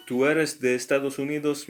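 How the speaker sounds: "Tú eres de Estados Unidos" with the pitch rising on the last words; rising question tune. Shown as a demonstration. Teacher shows students a yes-no question, rising at the end. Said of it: "the intonation at the end is, uh, rising".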